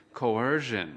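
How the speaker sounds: Coercion with the stress on the second syllable, co-ER-cion. Shown as a demonstration. Teacher shows where Coercion is stressed, clear model. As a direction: lean on the middle of Coercion. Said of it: "Trọng âm của từ coercion ở âm tiết thứ hai".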